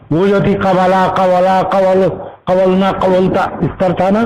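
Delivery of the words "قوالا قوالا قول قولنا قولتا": level run through verb forms; even paradigm drill; conjugation recitation. Shown as a demonstration. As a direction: recite the forms as a grammar example. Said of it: "اس میں دیکھیے ادائیگی میں".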